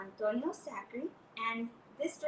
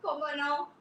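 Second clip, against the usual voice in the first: helpful flea; 2 semitones higher, much slower than usual. Acted. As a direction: chirp it brightly. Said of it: "she said".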